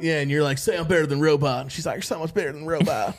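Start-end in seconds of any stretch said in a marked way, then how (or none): 0.6-1.6 lightly voiced hillbilly husband; a hint of hillbilly twang in a mock demand; hillbilly accent. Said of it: "I don't know why I give that accent". 1.9-3.1 lightly voiced hillbilly wife; mock reply with a hint of hillbilly twang; hillbilly accent. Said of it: "I don't know why I give that accent".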